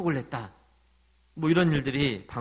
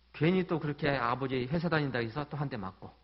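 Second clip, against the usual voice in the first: ordinary talk, nothing marked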